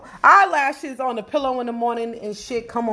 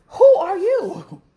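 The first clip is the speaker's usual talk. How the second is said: laugh-crying disbelief; 6 semitones higher, 4 dB louder, slower than usual. Retold or imitated. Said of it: "I'll be like".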